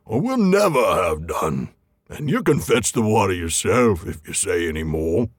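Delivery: a hint of a grumpy troll. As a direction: play them snapping at a fellow troll. Trolls telling Tom off.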